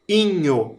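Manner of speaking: inho said alone, stressed i then nho; rhyme ending. Shown as a demonstration. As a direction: isolate inho clearly. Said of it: "A vogal mais forte é o I".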